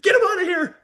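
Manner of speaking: hammed-up Scandinavian clerk, appalled and shooing it away; mock scandalised clerk. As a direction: play the clerk horrified by CBD. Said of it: "I asked the person at the vitamin shop".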